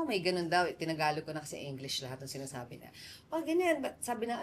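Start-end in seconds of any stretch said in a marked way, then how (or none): 3.3-3.8 mock shouting crowd. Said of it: "may mga nagsisigawan daw".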